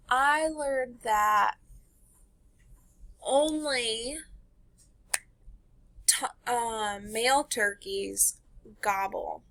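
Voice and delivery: each word drawn out slowly; slow, deliberate modeling. Shown as a demonstration. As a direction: say it slowly for the kids to copy. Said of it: "models a fact sentence slowly".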